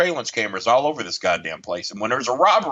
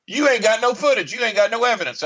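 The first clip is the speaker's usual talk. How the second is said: incredulous exclaim; 10 semitones higher than usual. Retold or imitated. Mocking the camera policy.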